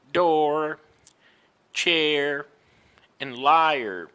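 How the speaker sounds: door, chair and liar with a strong final R; emphatic American R. Shown as a demonstration. Teacher modelling English R for learners, emphatic R on door, chair, liar. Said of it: "I emphasize the R".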